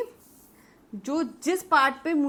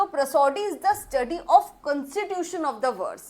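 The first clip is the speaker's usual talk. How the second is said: slow dictation; much slower than usual. Shown as a demonstration. Teacher dictating the famous definition.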